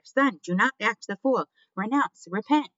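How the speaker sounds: high, loud urgent command; shouted. A narrator's reading. Mother ordering her son to repent, shouted. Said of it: "shouted his mother".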